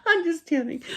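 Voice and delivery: light, teary laugh in the words; laughing through tears. Real, not acted. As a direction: shake off the emotion with a chuckle. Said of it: "I have to lighten up the mood".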